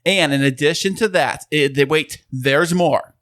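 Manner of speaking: pitchman selling hard; infomercial voice. Pretend. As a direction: sell it like a TV ad. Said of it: "You totally sound like an infomercial guy right now".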